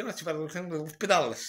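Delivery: imitated Portuguese accent; strong Portuguese accent. Retelling what the project's seller said, in a mock Portuguese accent. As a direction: mimic a salesman with a Portuguese accent. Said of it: "un fort accent portugais".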